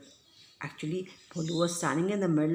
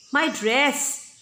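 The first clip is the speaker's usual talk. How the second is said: mock sob; 8 semitones higher, 7 dB louder than usual. A narrator's reading. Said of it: "sobbed Lovely".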